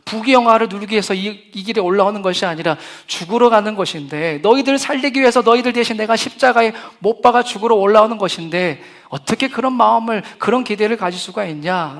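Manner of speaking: loud scolding of ungrateful followers; Jesus imagined scolding his people, loud and angry; angry rebuke. Pretend. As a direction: berate them with hurt fury. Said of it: "저 같으면은 정말".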